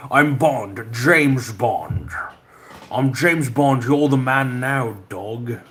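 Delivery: put-on Scottish movie-spy voice; slurred sibilants, drawn-out Scottish swagger; Sean Connery. Streamer riffing on a famous Bond line, impersonated spy voice. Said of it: "talk like Sean Connery".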